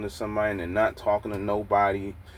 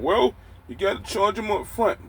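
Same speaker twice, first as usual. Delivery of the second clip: mocking high voice; 10 semitones higher than usual. Mocking what people tell him.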